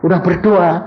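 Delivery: high, pleading complaint; complaining congregant. Acted. Congregant complains to pastor that prayer made things worse, high and distressed. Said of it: "kalau ada orang cerita".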